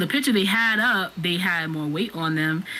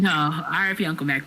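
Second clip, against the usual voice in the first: solemn; 2 semitones lower than usual. Acted. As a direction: say it with a straight, sober face. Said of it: "We will be speaking in monotones".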